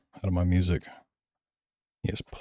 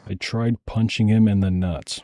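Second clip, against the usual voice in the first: slow, slightly louder disbelieving echo; incredulous repeat; 3 semitones higher, 4 dB louder than usual. Retold or imitated. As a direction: repeat it slowly, savoring every word in disbelief. Repeats a wild statement in disbelief.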